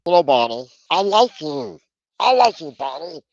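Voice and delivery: high, sing-song fake compliment; hollow, put-on niceness with pitch climbing high; insincere praise. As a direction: say it like you don't mean it. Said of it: "Your tone is telling me otherwise".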